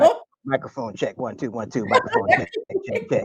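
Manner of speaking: lightly voiced rapper's mic check; hammed-up sound check; mock mic check. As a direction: test the mic like on stage. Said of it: "mock mic check".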